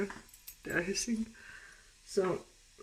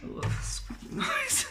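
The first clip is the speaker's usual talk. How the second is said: high squeaky voice; 5 dB quieter, slower than usual. Real, not acted. Reacting to creepy noise.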